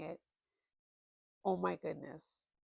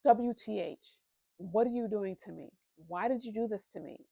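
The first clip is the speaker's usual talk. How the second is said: mock complaint; 2 semitones higher, 6 dB louder than usual. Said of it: "but I said".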